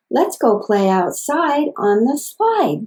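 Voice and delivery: slow, every syllable even and deliberate; walk through each syllable slowly; slow paced sentence. Shown as a demonstration. Therapist modeling a long sentence for a child, slow tapped speech. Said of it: "as you build longer sentences like".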